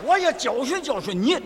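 put-on Osvaldo in a Shandong accent. Dubbing Osvaldo in Shandong dialect, calling the girl over. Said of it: "我是山东的奥斯瓦尔多".

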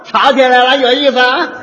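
stirring the pot, amused; gleeful troublemaker. Acted. Rowdy mediator gleefully enjoys the couple's fight. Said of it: "哪有这样劝的".

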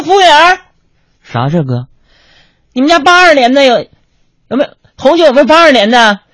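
hammed-up big-spender ordering; mock swagger. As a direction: show off to the waiter. Showing off ordering vintage wine.

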